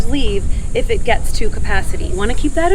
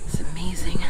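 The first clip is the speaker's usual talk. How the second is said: soft amazed whisper; whispered awe; 6 semitones lower, 7 dB quieter than usual. Real, not acted. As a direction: hush it in wonder. Awed at view.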